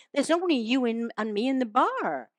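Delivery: put-on American cowboy voice; lightly voiced American Western accent. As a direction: play a puzzled cowboy in mock American. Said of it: "this is an American accent now".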